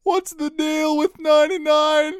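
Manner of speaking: lightly done high, slow standup delivery; a hint of a Seinfeld bit. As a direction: ask it like a standup observational joke. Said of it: "kind of Seinfeldian".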